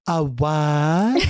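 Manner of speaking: a hint of a mincing feminine "A what?"; lightly mock the city guy with a little feminine lilt. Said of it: "putting on a little feminine".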